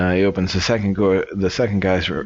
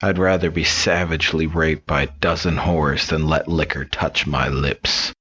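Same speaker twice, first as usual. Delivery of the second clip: disgusted; 2 semitones lower than usual. Acted. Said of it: "He replied in disgust".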